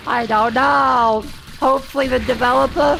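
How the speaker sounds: loud frantic panic. Real, not acted.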